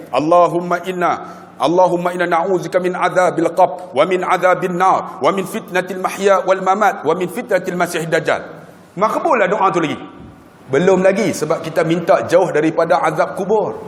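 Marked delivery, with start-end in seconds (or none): 0.1-8.4 measured Arabic recitation; teaching the short prayer, measured recitation. Acted. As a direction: recite the doa evenly.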